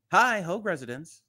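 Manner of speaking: pleasant phone hello. Retold or imitated. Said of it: "the most pleasant hello".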